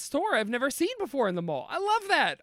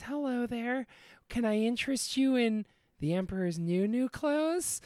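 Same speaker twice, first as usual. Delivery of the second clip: smooth salesman; 2 semitones higher, 4 dB quieter than usual. Acted. Salesman voiced in story.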